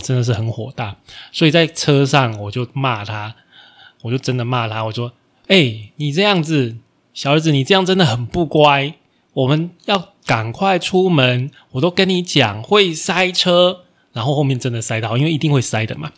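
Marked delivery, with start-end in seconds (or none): 5.5-13.8 a hint of an annoyed dad, slightly higher and louder; mild mock scolding, slowing at the end; scolding father. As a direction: tell the dawdling son off, moderately. Father scolding son in car.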